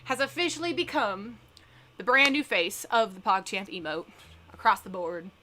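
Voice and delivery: lightly put-on, self-conscious Southern accent; bad Southern accent. Shown as a demonstration. Streamer reading a news topic to chat as a joke, bad Southern accent. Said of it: "really bad Southern accent".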